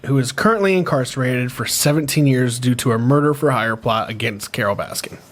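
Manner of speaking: measured news-reader read. Acted. Reads news article aloud.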